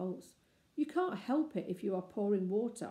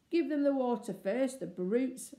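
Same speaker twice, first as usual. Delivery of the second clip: bloodthirsty; 5 semitones higher, 5 dB louder than usual. A narrator's reading. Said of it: "said the bloodthirsty Robert".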